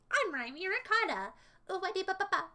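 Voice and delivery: a playful half-hearted imitation of her catchphrase; mild Raimi Ricotta impression. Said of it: "I copied her really good that time".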